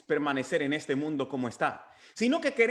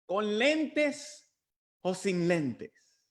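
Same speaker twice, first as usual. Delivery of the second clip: put-on old man answering; 2 semitones higher, much slower than usual. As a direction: play the puzzled old man, drawing out the question. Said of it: "A lo que el hombre anciano ... le contesta". (anciano con voz ligeramente fingida)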